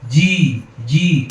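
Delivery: "জি" made at the front of the mouth; loud fronted "জি" as a mistake; fronted wrong jim. Shown as a demonstration. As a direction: push "জি" forward to the teeth. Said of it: "সামনে এনে বলি".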